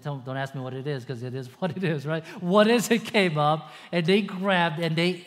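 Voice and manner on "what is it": louder, higher puzzled question; mock bewildered question; puzzled wonder. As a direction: ask like seeing strange food. People wondering at the manna.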